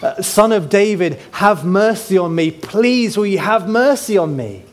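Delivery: mildly voiced desperate begging, over and over; repeated pleading. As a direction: plead again and again, understated. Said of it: "repeated crying out".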